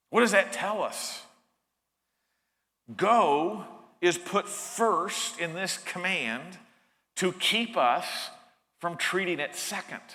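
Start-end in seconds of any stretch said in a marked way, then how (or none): 3.0-10.0 slow deliberate. Shown as a demonstration. Preacher drilling the point into listeners, slow and deliberate. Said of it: "Go is put first to keep us from treating it second".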